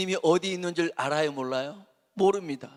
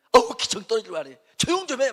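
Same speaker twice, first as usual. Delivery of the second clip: annoyed hush; 6 semitones higher, 7 dB louder than usual. Retold or imitated. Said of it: "막 그럴 거 아니겠어요".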